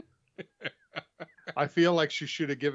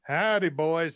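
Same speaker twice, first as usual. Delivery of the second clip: mock Southern twang greeting, raised pitch; 3 semitones higher, 4 dB louder, slower than usual. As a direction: put on a playful Texan twang. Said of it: "you'll pick up the right twang".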